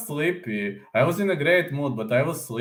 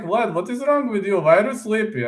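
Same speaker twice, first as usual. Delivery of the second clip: higher, puzzled buddy voice asking what's wrong; friend's puzzled question; 9 semitones higher than usual. Retold or imitated. Vlad voicing his friend's baffled question, higher puzzled tone. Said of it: "he told me, like".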